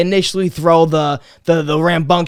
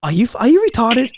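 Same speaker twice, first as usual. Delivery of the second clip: angry dad; 4 semitones higher than usual. Retold or imitated. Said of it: "he goes".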